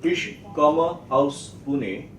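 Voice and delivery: slow, spaced-out model sentence; drawn-out classroom German; slow teacher modelling. Shown as a demonstration. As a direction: say it slowly for learners to copy. Teacher restarts drill with model sentence.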